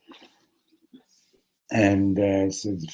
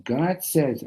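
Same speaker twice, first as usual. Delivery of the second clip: yielding realization; 6 semitones higher than usual. Acted. Hasidim concede on hearing it.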